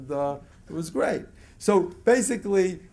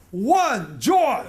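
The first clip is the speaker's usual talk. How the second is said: louder, calling out joy on each count; joyful counting; 2 semitones higher, 5 dB louder than usual. Shown as a demonstration. Demonstrating joyful counting to the audience, excited call. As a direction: count it out with rising delight. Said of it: "the way you count joyfully is like this".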